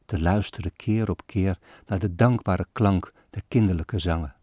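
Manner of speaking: measured, solemn poem reading; poem recitation. A narrator's reading. Reader recites a sad Christmas poem, solemn and measured. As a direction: recite the old verses with gravity.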